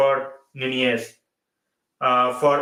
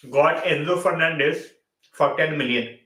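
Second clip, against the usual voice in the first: talking through a yawn; sleepy yawn mid-phrase. Real, not acted. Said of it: "Sorry for yawning".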